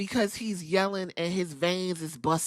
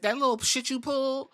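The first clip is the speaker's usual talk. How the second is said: mock Nick Aldis; 7 semitones higher than usual. Nick Aldis voiced in wrestling recap.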